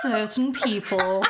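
slow, pointed echo through laughter; drawn-out teasing quote; mock-offensive emphasis. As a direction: repeat it pointedly, amused. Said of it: "made it sound offensive".

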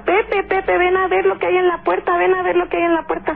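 high urgent call to husband; retold mother calling her husband in alarm. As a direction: yell for him to come see, alarmed. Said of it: "le empieza a gritar a mi papá".

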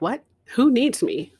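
freaking out. Retold or imitated. Woman answering the mysterious voice, freaking out in disbelief. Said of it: "there's this freaking out".

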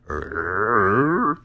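drawn-out zombie moan; zombie groan. Pretend. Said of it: "here's my zombie sound".

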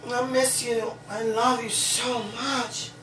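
slow, soft and tender. Real, not acted. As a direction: say it gently to someone you miss. Tender words to absent sweetie.

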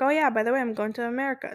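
offhand, matter-of-fact news; blunt casual announcement. Shown as a demonstration. Mom breaking news to her child, bluntly offhand. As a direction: toss it off like it's nothing. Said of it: "Not, not like that".

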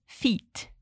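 breathy whispered demo word; whispered model. Shown as a demonstration. Teacher whispering the word for students to echo. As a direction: whisper "feet" softly. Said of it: "Then, repeat".

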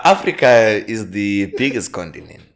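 a lightly voiced Zuma; mock-serious politician line; a hint of Zuma's voice; Zuma impression. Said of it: "Zuma was like".

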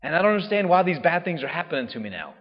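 a hint of an anguished prophet; pleading Elijah. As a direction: plead your case to the Lord. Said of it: "And he says".

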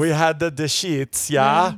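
a light put-on Dutch accent; joking Dutch-accented delivery. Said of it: "I used my Dutch accent".

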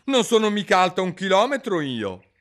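put-on a girl objecting; Alice protesting to the court. A narrator's reading.

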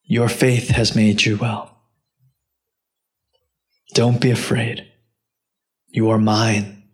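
low, calm voice with long pauses; tender reassurance. Acted. Preacher as Jesus accepting his daughter, tender reassurance. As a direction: let each assurance settle gently.

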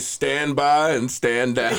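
slow, drawn-out delivery; slow dramatic quote. Retold or imitated. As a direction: stretch each word out. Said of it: "He was about to say".

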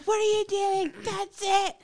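angry mom. Retold or imitated. Mom bursting into her son's room. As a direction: storm in and end it. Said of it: "and I'm like".

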